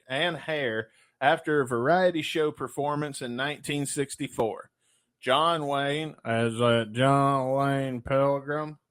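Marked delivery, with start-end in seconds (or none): 5.2-8.8 John Wayne impression. Shown as a demonstration. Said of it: "I'm gonna try to do a, impersonation".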